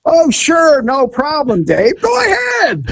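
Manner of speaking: high, mock-casual permission; sarcastic. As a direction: wave it off sarcastically. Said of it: "I was being sarcastic".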